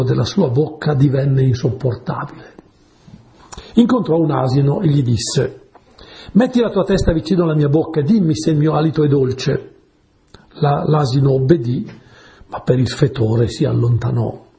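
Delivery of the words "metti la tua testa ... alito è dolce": ordinary talk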